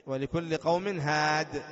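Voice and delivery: "ولكل قوم هاد" recited slowly, stopping on "هاد" without the ya; Quranic pausal recitation. Shown as a demonstration. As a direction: chant it slowly and stop on the d. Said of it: "تقف على حذف الياء". (تلاوة بطيئة مع الوقف على "هاد")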